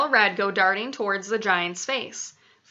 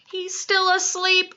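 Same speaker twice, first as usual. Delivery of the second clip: whispering giant; 10 semitones higher than usual. A narrator's reading. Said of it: "the B F G whispered".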